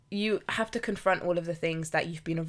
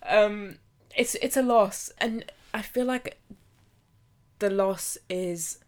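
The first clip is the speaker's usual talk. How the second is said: touched; 3 semitones higher, 4 dB louder than usual. Real, not acted. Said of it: "I'm getting emotional".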